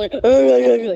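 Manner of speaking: imitating his squeaky voice after the crash shock; a strained high squeak, mock. Telling his friend how the crash changed his voice, high squeak. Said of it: "έπιεν έτσι η φωνή μου".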